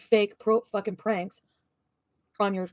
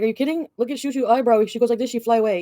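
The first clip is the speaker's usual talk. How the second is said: higher mocking take on the boyfriend's broken English; imitating boyfriend; 4 semitones higher, 5 dB louder than usual. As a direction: parody him laughing off the eyebrows. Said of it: "He's like".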